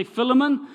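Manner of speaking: "Philemon" with short first i and unstressed middle; short-i pronunciation. Shown as a demonstration. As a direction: say "Philemon" as FILL-uh-mun. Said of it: "Some of you may say".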